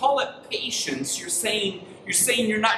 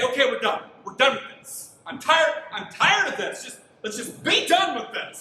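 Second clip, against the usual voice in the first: fed-up dad; 5 semitones higher than usual. Pretend. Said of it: "pick him up and say".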